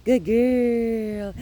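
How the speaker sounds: high, loud excited praise; happy voice. Shown as a demonstration. Trainer praising the dog in an excited, happy voice. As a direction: gush over her, really happy. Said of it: "Yeah, happy voice".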